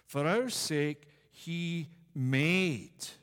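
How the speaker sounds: slow, leaning hard on made; stress on made. Shown as a demonstration. Preacher stressing the key word to the congregation, made leaned on. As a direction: land the word made slowly and firmly. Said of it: "I'm gonna emphasize the word".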